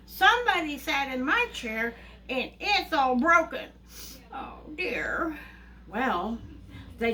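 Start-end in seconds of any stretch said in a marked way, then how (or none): 0.1-5.4 lightly voiced upset little bear, higher; a touch of a little bear's wail; Baby Bear. Little bear finding his chair broken, mildly upset. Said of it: "Baby Bear comes along and he goes".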